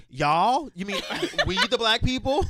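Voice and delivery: incredulous question broken by laughs; mock outrage at friends' family remark; laughing disbelief. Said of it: "And I'm like".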